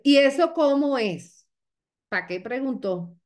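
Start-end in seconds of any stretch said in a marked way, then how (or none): 0.0-1.5 higher, louder eager question; acted burst of curiosity; curious prospect. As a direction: imitate an intrigued prospect asking. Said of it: "La que te dice".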